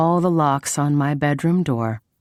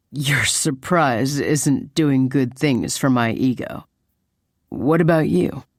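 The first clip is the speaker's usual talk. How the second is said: slow, wry male-lead voice; lightly voiced dry boyfriend; 2 semitones lower than usual. Man teasing her over his bruised ego, lightly voiced. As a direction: play him slow and mildly wounded.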